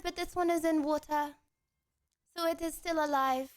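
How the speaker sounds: put-on French accent. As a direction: speak English with a French accent. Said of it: "The accent starts when I start".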